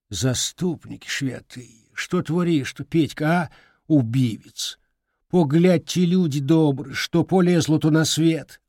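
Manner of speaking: put-on lamenting old woman. Grandmother lamenting.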